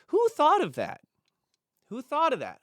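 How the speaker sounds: squeaky high excited sponsor voice; mock gushing sponsor. Sponsor on phone gushing over the video, high squeak. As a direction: gush like an amazed fan. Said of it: "And he said".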